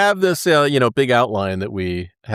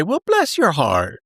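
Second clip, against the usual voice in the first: sweet Southern put-down; 5 semitones higher, slower than usual. Retold or imitated. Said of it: "we just say".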